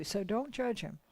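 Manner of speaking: hushed, voiceless warning; soft whispered caution. Retold or imitated. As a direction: breathe it as a secret. Anita's advice, closing take.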